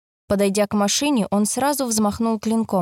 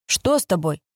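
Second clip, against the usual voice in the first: surprised; 3 semitones lower than usual. A narrator's reading. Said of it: "удивлённо спросил Шуруп".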